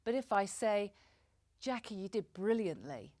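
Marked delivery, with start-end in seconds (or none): 1.6-3.1 level, meant compliment; steady, sincere congratulation in an everyday pitch; sincere praise. Shown as a demonstration. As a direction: praise Jackie and mean it. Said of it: "holding the look conveys the meaning that I intend".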